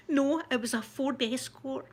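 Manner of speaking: mock-innocent correction; innocent earnestness. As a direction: answer in all seriousness, drawn out. Woman innocently misunderstands police question.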